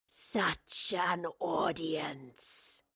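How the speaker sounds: extremely slow whispered creature voice; sinister wraith. A narrator's reading. Wraith grins at its victims before attacking, sinister. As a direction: whisper it, drawing out every sound.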